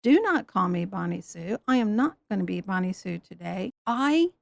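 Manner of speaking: mock bitter retort. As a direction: grumble the refusal. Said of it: "Bonnie Sue comes back and says".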